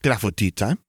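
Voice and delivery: eager rising question; light, hopeful little cheer. A narrator's reading. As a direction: ask it like a treat is coming. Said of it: "Gabby cheered".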